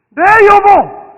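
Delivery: high, loud "네, 여보!"; eager loud answer. Shown as a demonstration. Pastor leading husbands to answer their wives, loud. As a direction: answer your wife with a glad shout. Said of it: "남자들만 다시 해보세요".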